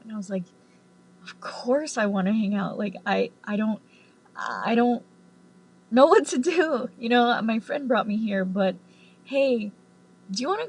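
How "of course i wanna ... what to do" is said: hushed, starstruck whisper of an eager fan; breathless whispered yes. Retold or imitated. Fan whispering back to the star, starstruck and hushed. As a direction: whisper it like you can't believe your luck.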